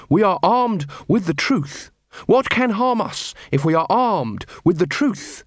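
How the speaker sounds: slow, earnest proclamation by an idealistic officer; idealistic declaration. Acted. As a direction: say it slowly like a noble creed. Carrot speaks idealistically.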